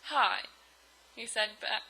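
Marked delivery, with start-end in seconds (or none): 0.0-0.4 subdued little hello; understated sad greeting; downcast reply. Acted. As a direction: answer glumly, without any lift. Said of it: "his face was all sad".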